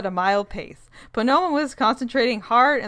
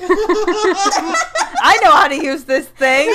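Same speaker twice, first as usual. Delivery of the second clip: mocking character voice; 9 semitones higher, 8 dB louder, much slower than usual. Mocking Hooch waving wand.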